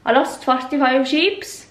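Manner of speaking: lightly mimicked Irish accent, rising at the end; a hint of an Irish accent; Irish farmer impression. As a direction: imitate the Irish farmer, sounding a bit Norwegian. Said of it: "sounds like a Norwegian person speaking".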